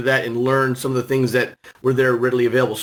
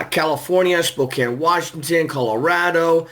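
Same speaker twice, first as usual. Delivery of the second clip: usual speaking voice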